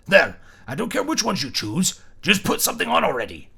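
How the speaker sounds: loud, flustered and high; urgent, eyes shut, pleading; a flustered man insisting. Acted. Flustered man throws clothes.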